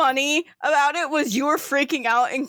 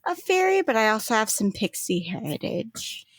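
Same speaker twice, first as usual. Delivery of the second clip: smiling reply. Acted. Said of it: "She just smiles and goes".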